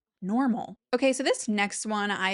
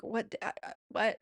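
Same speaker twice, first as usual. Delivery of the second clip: groggy just woke; 4 dB quieter, faster than usual. Retold or imitated. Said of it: "I'm, like, barely opening my eyes".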